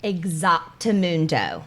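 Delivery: lightly voiced father; dad's catchphrase. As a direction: drag out Exactamundo the way dad says it. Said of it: "as my father would say".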